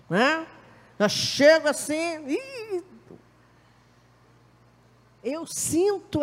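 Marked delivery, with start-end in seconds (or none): 2.3-2.8 high little whimpering "ih"; a touch of a sulky whimper; mock whimper. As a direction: whimper softly to show hurt. Showing she is upset.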